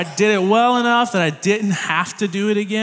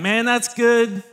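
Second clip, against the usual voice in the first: "Man, that's good" higher and slow, grudging and dismissive; dismissive Southern drawl; 6 semitones higher, slower than usual. Shown as a demonstration. Pastor models the saying for the congregation, dismissive. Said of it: "a little dismissive, a little disapproval".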